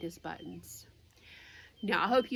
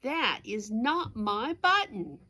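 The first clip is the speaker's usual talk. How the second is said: slow, drawn-out mock wail; a touch of a wailing toad; mild wail; 2 semitones higher, 5 dB louder, slower than usual. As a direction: whine it like a let-down toad. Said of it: "wailed Toad".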